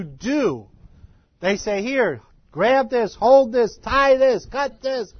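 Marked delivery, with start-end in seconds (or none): 1.8-5.1 loud, raised commands in short bursts; high, forceful imitation of ranchers; barked orders. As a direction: order a rookie through the job. Acting out ranchers barking orders.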